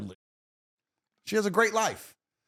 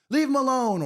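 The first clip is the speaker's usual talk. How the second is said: mocking mother; 11 semitones higher, 6 dB louder than usual. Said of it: "mothers will get in the way".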